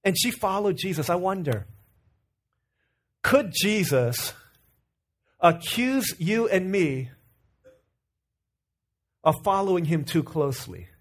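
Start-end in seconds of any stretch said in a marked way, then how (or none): 3.2-10.9 slow and weighty. Real, not acted. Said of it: "slow rhetorical question".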